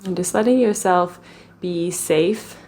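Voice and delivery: calm, even meditation voice with long pauses; guided meditation. Real, not acted. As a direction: guide them gently into the body, leaving space between phrases.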